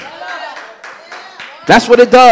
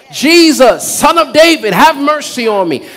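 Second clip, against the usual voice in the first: mildly raised, higher-pitched cry for mercy; 4 semitones higher than usual. Retold or imitated. Blind Bartimaeus calling to Jesus for mercy, crying out. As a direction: call out as if begging a passerby to stop. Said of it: "crying out at the top of his".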